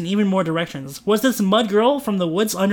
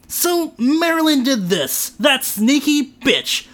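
bitter; 7 semitones higher, 4 dB louder, slower than usual. Acted. Trent bitter about Marilyn.

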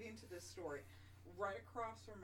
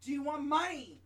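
startled question; 6 semitones higher, 12 dB louder than usual. Retold or imitated. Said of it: "I was like".

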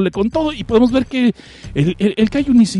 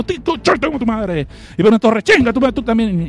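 angry kaiju; 3 semitones higher than usual. Acted.

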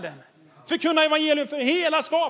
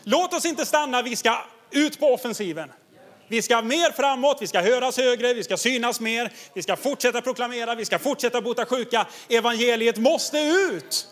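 fervent prayer. Retold or imitated. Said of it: "då samlas de och ber".

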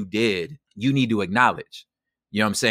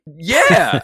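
sarcastic; 7 semitones higher, 9 dB louder than usual. Retold or imitated. Sarcastic reply to father's apology.

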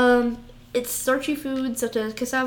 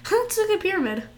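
baffled; 4 semitones higher, faster than usual. Real, not acted. Baffled by a food photo.

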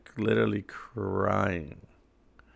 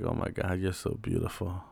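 soft whisper; 2 semitones lower, 7 dB quieter than usual. Retold or imitated. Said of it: "I whisper in her ear".

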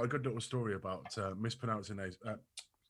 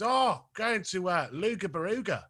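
slow, higher "Luga Baruga"; lightly voiced Australian friend; 7 semitones higher, 4 dB louder, slower than usual. Retelling the Australian mate's call, lightly mocked Aussie voice. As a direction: drawl it out like the Aussie mate. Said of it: "He goes".

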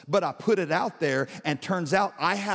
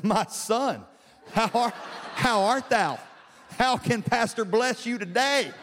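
raised, lightly hammed-up clergyman greeting; mock-grand pastor; 4 semitones higher than usual. Pastor greets man holding field passes, mock-grand. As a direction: play the overly holy pastor for laughs.

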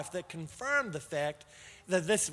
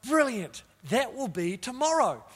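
higher and louder, thrilled; eager excitement; 4 semitones higher, 3 dB louder than usual. Retold or imitated. Preacher answering God about soon, thrilled and loud. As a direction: grab the promise, thrilled.

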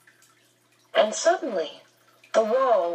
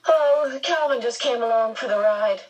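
harsh boldness; 5 semitones higher than usual. Acted. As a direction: put on a brave front. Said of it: "spoke with harsh boldness".

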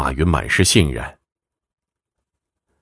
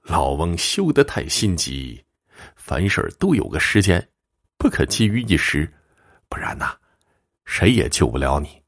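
placating fortune-teller; 4 dB quieter than usual. Acted. Fortune-teller placating a worried client, hushed warning at the end. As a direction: talk the old man down, dropping to a hush. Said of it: "连忙解释说".

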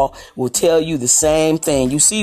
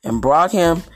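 scripture reading; 3 semitones lower than usual. Acted. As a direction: read the verse out to the congregation. Pastor reads scripture aloud.

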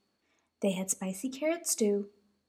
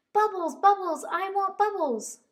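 high, bouncy little bunny voice; eager little bunny; 10 semitones higher, 5 dB louder than usual. Acted. Dozy asking Mama what's for dinner, high eager bunny. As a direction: chant it like a hungry toddler. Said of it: "cried Dozy".

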